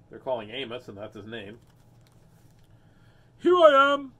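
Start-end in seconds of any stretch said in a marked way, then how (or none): 3.4-4.1 very loud, high doggy shout; high yelped answer; barked out. Acted. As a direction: bark the words like an eager dog. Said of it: "barked Amos".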